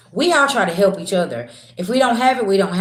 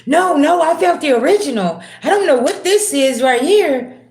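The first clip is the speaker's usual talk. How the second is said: higher, louder, pushy fake insistence; insistent mock protest; 7 semitones higher, 4 dB louder than usual. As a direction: ham up the liar swearing he found it. Liar insisting on real will.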